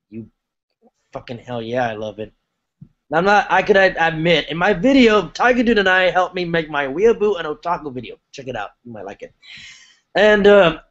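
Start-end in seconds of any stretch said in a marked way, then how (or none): 0.1-9.3 heavy breathing. Real, not acted. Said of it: "sorry, I'm breathing hard".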